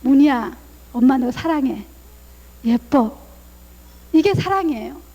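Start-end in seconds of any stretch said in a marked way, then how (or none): 0.0-3.2 a gentle, open-hearted I love you; tender love. Shown as a demonstration. Mother telling her daughter Munhui she loves her, tender. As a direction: say it lower and gently, like light sky blue. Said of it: "그 하늘색의 마음을 가지고 사랑한다고 얘기해보세요".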